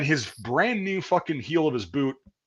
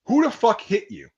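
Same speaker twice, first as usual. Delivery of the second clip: much higher, barked question; drill sergeant demand; 10 semitones higher, 4 dB louder than usual. Retold or imitated. Drill sergeant confronting the bloodied recruit, barked demand. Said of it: "And he's like".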